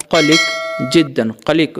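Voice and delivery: कलिक with a big Arabic kaf at both ends; big kaf sound. Shown as a demonstration. Teacher showing learners Arabic for worried, कलिक with big kaf. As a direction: say कलिक slowly, big kaf first and last. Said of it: "दोनों बड़ा काफ से, पहले का काफ भी last का काफ भी".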